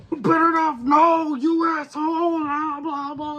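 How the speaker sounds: high-pitched mock protest, fading into blahs; hammed-up angry yelp; retold outrage. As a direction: act out an indignant fan's outburst, then let it tail off. Retelling own outrage as wrestler appears.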